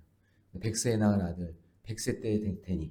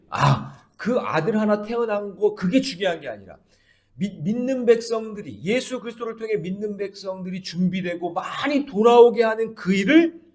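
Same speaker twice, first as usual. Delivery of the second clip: high, louder preaching; full-force preaching; 10 semitones higher, 6 dB louder than usual. Acted. Pastor preaching to the congregation, high and loud. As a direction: preach it with rising fervor.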